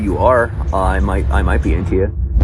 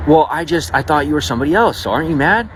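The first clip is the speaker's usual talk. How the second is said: higher, put-on female voice; imitated flustered woman; 7 semitones higher than usual. Woman asking whether he is mad, high flustered imitation. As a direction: mimic her protesting in a high voice. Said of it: "She's like".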